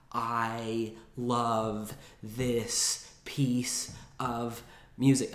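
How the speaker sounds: each word of "I love this piece of music" drawn out slowly, evenly weighted; every word stressed. Shown as a demonstration. Piano teacher showing a sentence without flow, every word emphasized slowly. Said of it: "not gonna say a sentence like this".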